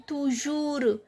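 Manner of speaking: "toujours" as "too-joor", S silent; silent final S. Shown as a demonstration. Teacher sounding out French, "toujours" with silent S. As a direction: end "toujours" on the R, no S. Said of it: "S is not pronounced".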